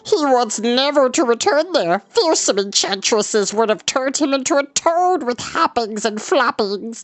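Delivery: a terrified beast pleading not to go; frightened Gurgi. A narrator's reading.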